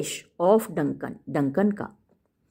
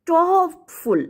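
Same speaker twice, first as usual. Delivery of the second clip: dramatic plea; 9 semitones higher than usual. Shown as a demonstration. Teacher voicing Lady Macbeth's demand, raised. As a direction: demand to be filled. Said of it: "teacher voices Lady Macbeth".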